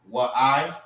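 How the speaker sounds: "What I" with the A sounded, set apart; the mistaken "What I", two clear syllables; wrong way. Shown as a demonstration. Teacher showing students the wrong reading. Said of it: "Instead of saying".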